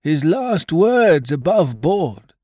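frightened pirate moaning over Flint's last words. Acted. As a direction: moan it as if the ghost were near. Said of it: "moaned Morgan".

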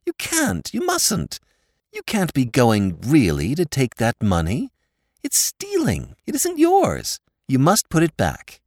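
high, urgent pleading; shocked, begging him to stop; pleading with Lord Drever, high and urgent; alarmed Molly. A narrator's reading. Molly protests.

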